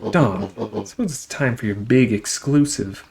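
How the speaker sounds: villain voice. Acted.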